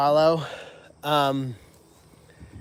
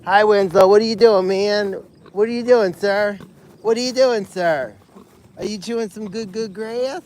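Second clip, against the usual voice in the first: high, loud sing-song cooing at the pig; sweet high pet talk, louder; 4 semitones higher, 5 dB louder than usual. Real, not acted. Cooing to the pigs.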